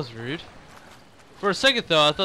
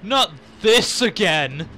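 unimpressed; 4 semitones higher, 10 dB louder, much slower than usual. Retold or imitated. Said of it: "so unimpressed".

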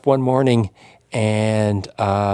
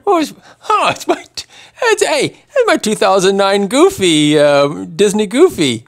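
excited; 6 semitones higher, 4 dB louder than usual. Real, not acted. Finding an old race medal.

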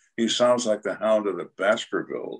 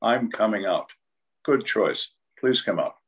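muffled voice. Retold or imitated. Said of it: "in a muffled voice".

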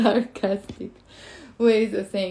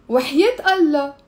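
louder teasing وحياة Allah, Allah stressed; sarcastic tone; 3 semitones higher, 5 dB louder than usual. Shown as a demonstration. Teacher quizzes students with a sarcastic tone. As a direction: say it mockingly, meaning of course not. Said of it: "Just by the tone of my voice".

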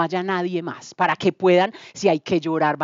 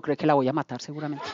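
laughing; 5 semitones lower, 6 dB quieter, faster than usual. Retold or imitated. Joking about killing her, laughing.

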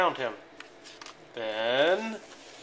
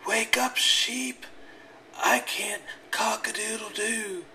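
rooster voice; 6 semitones higher than usual. A narrator's reading.

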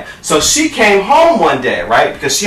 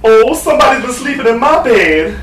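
Mama Bear; 6 semitones higher than usual. Acted. Mother bear finding her bed slept in, high fretting. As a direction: wail it high in mock dismay. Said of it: "Mom Bear says".

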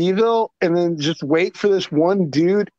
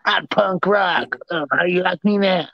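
mock punk rocker. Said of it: "I'm gonna show my Sid Viciousness".

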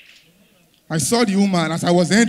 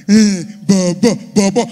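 put-on cooing at baby; 5 dB louder than usual.

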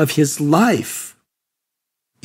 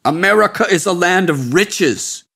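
shouted; 4 semitones higher than usual. Acted. Sadhu shouting at the seeker about America, bitter. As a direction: proclaim "America is a land of riches" with bitter force. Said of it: "he shouted at me".

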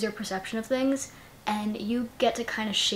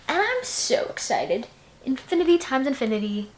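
gushing excitement; 3 semitones higher than usual. Real, not acted. To viewers about the sequel, gushing excitedly. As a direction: let the excitement spill out.

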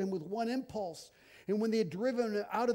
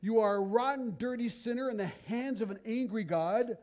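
mock condemnation; 4 semitones higher, 4 dB louder than usual. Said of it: "You might try this".

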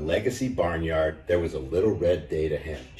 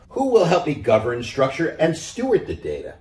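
hen asking; 6 semitones higher, 4 dB louder than usual. A narrator's reading. Hen asks animals.

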